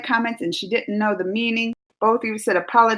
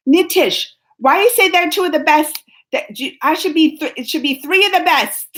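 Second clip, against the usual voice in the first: playful protest; 6 semitones higher, 4 dB louder than usual. Real, not acted. Playfully correcting a viewer.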